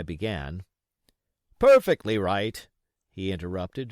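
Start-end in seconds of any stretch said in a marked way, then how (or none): 1.6-2.7 hearty, louder cheerful agreement; cheerily. A narrator's reading. Dance interrupting Jim, cheery and hearty. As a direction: agree heartily, cutting him off. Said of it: "very cheerily".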